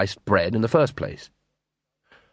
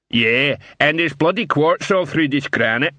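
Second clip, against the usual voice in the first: grumbling troll; 2 semitones higher than usual. Acted. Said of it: "said another troll".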